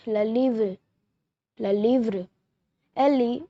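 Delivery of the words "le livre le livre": le livre said luh LEEVR; French le livre. Shown as a demonstration. Teacher teaching viewers the French word le livre, clear demo. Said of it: "We say the book in French".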